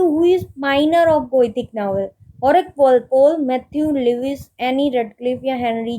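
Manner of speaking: reads the question word by word, very slowly; slow dictation reading. Acted. Teacher reading a quiz question to students, slow dictation pace. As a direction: spell out each option slowly for note-taking.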